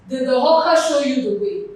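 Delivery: weight on "hawker" as the contrasted word; stress on HAWKER. Shown as a demonstration. Teacher posing an exam question to students, emphatic stress on "hawker". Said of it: "Hawker is carrying the stress".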